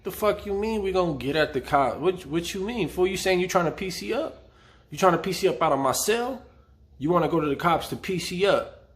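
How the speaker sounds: mock-confrontational retelling; confronting the cellmate. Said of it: "I look up at him and I'm like".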